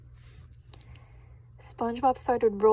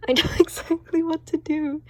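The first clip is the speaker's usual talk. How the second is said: excited; 6 semitones higher, 7 dB louder than usual. A narrator's reading. Patrick proud of his plan.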